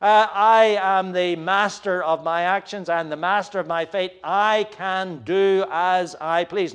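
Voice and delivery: a lightly voiced arrogant wicked man; arrogant boast. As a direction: scoff like a godless boaster. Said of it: "an attitude that says".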